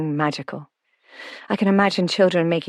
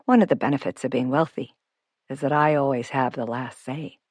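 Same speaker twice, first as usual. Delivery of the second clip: lightly voiced, low-key playful owner; twinkly self-made homeowner; 3 semitones lower than usual. Noel joking to Grace about his wealth, lightly voiced and twinkly. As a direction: own up cheekily as Noel the homeowner. Noel's dialogue in narration.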